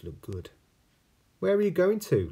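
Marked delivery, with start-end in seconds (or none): 1.4-2.3 snake voice. Acted.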